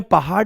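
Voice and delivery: "पहाड़" ending in a hard ड stop; mispronounced hard ड. Shown as a demonstration. Teacher asking why nobody says it so, mispronounced hard ड. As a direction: deliberately misread "पहाड़" with no flap, as "pahaad". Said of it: "इसमें पहाड़ क्यों नहीं बोल रहे हो".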